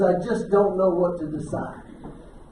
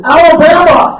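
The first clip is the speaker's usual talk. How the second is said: bursting out louder and higher, laughing; kid's proud answer, laughed out; 8 semitones higher, 15 dB louder than usual. Retold or imitated. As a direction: blurt it while cracking up.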